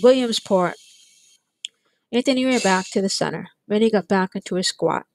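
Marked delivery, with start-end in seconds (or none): 0.0-0.7 yelled. Acted. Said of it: "they yelled".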